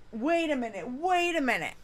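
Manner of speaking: ordinary talk, nothing marked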